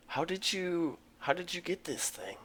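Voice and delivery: hushed secret whisper. Acted. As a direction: whisper it so no one hears. Secret call, unvoiced.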